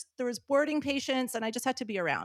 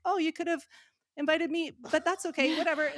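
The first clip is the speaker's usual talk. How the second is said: sarcastic; 5 semitones higher than usual. Retold or imitated. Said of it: "I'm like".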